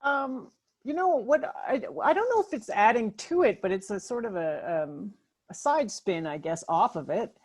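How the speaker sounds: garbled, glitchy robotic voice; broken-up cyborg voice; alien voice. Real, not acted. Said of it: "You're doing, you're doing the alien voice".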